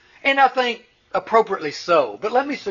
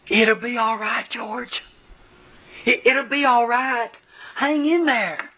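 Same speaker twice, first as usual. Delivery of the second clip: higher, pleading, forced calm; a patient dad begging himself to stay calm; soothing father; 6 semitones higher than usual. Retold or imitated. Father voiced soothing his tantrum.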